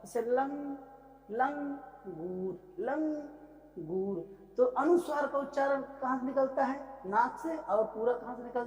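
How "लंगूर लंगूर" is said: लंगूर stretched very slowly, the ं hummed through the nose; slow nasal demo. Shown as a demonstration. Teacher drawing out लंगूर so students hear the nose sound. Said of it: "जब इस अनुस्वार का उच्चारण करते हैं".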